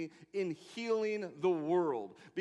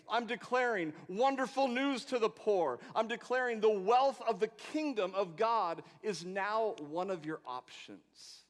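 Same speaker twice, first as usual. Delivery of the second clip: voicing Jesus; 6 semitones higher, 5 dB louder than usual. Preacher voicing Jesus' declaration.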